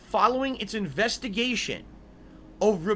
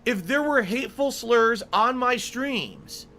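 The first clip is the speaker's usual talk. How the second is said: loud, slow indignation; explosive rage; 3 semitones higher, 4 dB louder, slower than usual. Real, not acted. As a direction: demand it, furious. Outraged at accusation.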